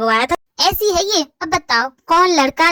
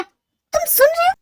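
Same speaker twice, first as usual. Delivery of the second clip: indignant demand; slower than usual. Acted. Demanding attention mid-rant.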